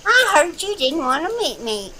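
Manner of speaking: a clumsy Kentucky twang impression; bad country singer accent. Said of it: "Now, that's a terrible accent".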